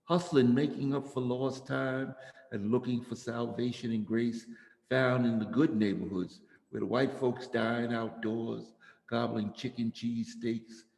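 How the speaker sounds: measured spoken-word delivery with weighted phrases; poetry reading. Real, not acted. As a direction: read it as a poem, punching the openings of phrases. Reads own poem aloud.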